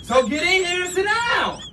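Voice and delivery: pretend-angry command breaking into laughter; laughing shout. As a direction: shout it while cracking up. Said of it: "Who is you yelling at like that?".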